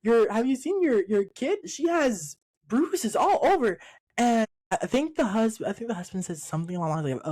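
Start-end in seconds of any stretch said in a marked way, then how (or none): 0.0-3.8 high, rushed mock panic; a mother alarmed at her child's bruises; imitating a frantic mom, voice pitched up; panicked mom. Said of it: "And she's like".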